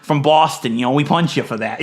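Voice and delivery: best attempt at a Boston accent; lightly put-on Boston accent; Boston movie tough guy, mild accent. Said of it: "that's my best Boston accent".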